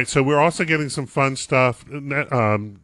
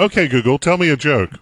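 loud command to smart speaker; 2 semitones higher, 5 dB louder than usual. Pretend. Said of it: "keep doing this, this bit".

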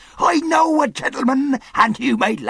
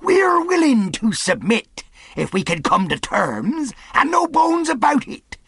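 high, loud pirate parley; calling out; 14 semitones higher, 6 dB louder than usual. A narrator's reading. Silver asks the captain's word for safety, calling out. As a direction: holler the terms across a distance. Silver shouts his terms across stockade.

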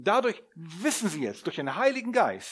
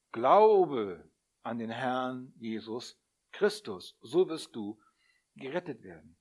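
solemn answer; 3 semitones lower, slower than usual. Acted. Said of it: "Die Antwort ist".

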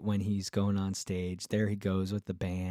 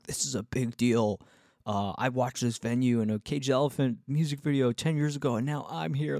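excited gushing; 4 semitones higher than usual. Retold or imitated. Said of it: "He's kinda the opposite of me".

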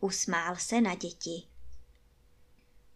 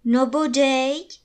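slow, louder emphatic agreement; a hearty old gentleman saying of course; storyteller's confident yes; agreeing; 4 semitones higher, 6 dB louder, slower than usual. A narrator's reading. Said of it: "přisvědčil pan Prášil".

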